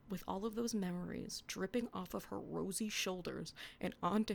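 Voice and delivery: earnest romance reading; dramatic reading of teenage prose; story reading. Acted. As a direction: read the fanfic with mock tenderness. Reading her old fanfic aloud.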